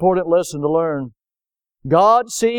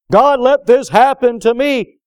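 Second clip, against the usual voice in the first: complaint; 4 semitones higher, 5 dB louder than usual. Retold or imitated. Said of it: "immediately start saying".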